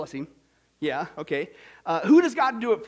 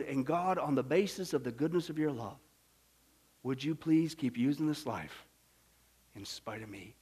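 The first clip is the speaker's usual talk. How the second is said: humble prayer; 7 semitones lower, 7 dB quieter than usual. Acted. Preacher pleading with God to keep using him, humble prayer.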